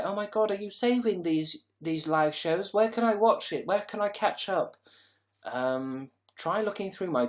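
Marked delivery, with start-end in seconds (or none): 0.0-4.8 much higher, louder gushing fan voice; mocking eager viewer. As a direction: squeal it like an excited fan. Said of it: "some of you are like".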